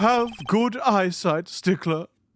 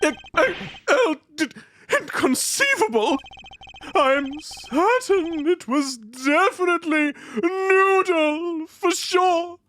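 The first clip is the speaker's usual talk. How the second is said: flustered witness; 6 semitones higher than usual. Acted.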